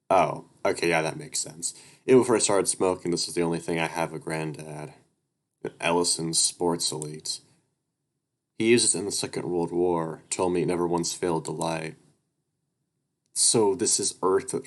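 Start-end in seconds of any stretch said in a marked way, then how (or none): 2.1-12.0 steady read-aloud narrator voice; even storytelling read; story narration. A narrator's reading.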